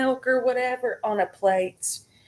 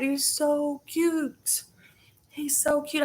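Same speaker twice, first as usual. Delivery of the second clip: high, soft whisper over the kitten; whispered cooing; 7 semitones higher, 6 dB quieter, slower than usual. Real, not acted. Whispering to the kitten on her lap, tender. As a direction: breathe it softly to the tiny kitten.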